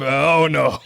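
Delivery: laughing. Real, not acted. Realizes his costume mistake.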